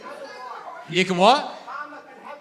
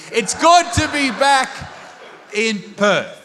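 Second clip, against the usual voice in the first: shouted greeting; 3 semitones higher than usual. Real, not acted. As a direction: yell it out to the whole room. Comic greets his Perth crowd.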